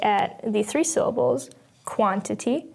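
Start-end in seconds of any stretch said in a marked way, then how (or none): 1.8-2.7 "quantity" with the weight on "quan"; strong "quan", lighter "tity" in "quantity"; stress on first syllable. Shown as a demonstration. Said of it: "has the first syllable stressed".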